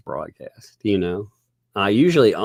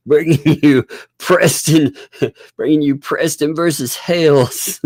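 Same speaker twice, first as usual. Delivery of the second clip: high, drawling mock rapper intro; loud, laughing mock rapper voice; impression of a rapper; 8 semitones higher, 7 dB louder than usual. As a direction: hype it up like a rapper announcing the show. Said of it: "it's Snoop D O double G".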